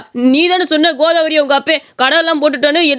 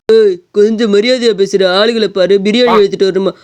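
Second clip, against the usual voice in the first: stern rebuke; 6 semitones lower than usual. Acted. Server bristles at rude order. (தாழ்ந்த குரலில் நிதானமான கண்டிப்பு)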